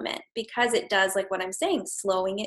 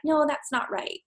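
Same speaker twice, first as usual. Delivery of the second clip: mock correcting parent; 6 semitones higher than usual. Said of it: "we're being like".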